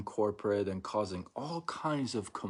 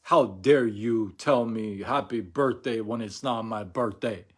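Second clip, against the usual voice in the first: mock indignant caller; 6 dB louder than usual. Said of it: "They're not saying".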